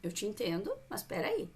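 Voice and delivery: tom suave, firme e acolhedor; mãe calma. Shown as a demonstration. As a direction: acolha sem perder a firmeza. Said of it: "E ela vê". (mãe colocando limite com calma)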